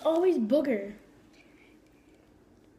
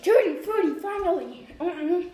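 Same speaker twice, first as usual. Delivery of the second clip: excited; 5 semitones higher, 3 dB louder than usual. Real, not acted. Finally gets the good bean.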